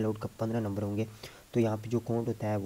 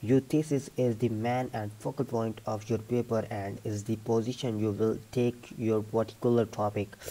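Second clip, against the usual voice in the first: measured test-passage reading; read-aloud demo; much slower than usual. Shown as a demonstration. Teacher takes the read aloud task for students, read-aloud demo. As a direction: read it out steadily for a speaking test.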